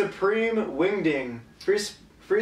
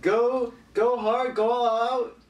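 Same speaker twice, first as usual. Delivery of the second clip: hype man; 7 semitones higher than usual. Pretend. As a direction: pump up the crowd, hype man. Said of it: "you have to be like a hype man".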